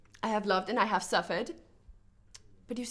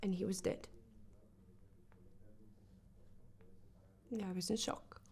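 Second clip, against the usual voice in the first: very soft, halting confession; numb shock; 10 semitones lower, 16 dB quieter than usual. Acted. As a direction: let the voice drop away, stunned. Recounting touching her dead brother.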